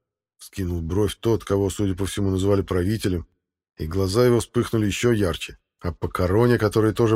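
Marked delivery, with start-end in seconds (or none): none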